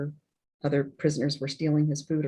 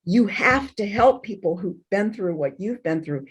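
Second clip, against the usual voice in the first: father presses the point, a bit higher and louder; insistent no; 5 semitones higher, 3 dB louder than usual. Retold or imitated. Dying father insisting to his daughter, higher and louder. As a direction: stress the no, then keep urging. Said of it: "And he goes".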